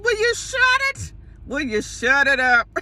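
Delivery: high, strained mock scolding; exasperated hushing. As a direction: imitate frantically shutting your sister up. Retold hushing of sister.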